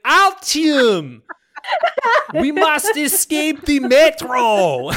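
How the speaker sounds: high, shouted mock Russian accent; fake Russian accent. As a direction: bellow it slowly like terrible Russian-accented dubbing. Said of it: "they're putting on a fake Russian accent".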